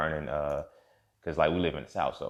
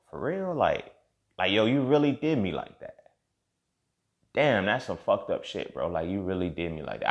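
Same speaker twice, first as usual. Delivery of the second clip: hurt disbelief; 3 semitones higher, 4 dB louder than usual. Retold or imitated. Reacting to cheating confession, hurt.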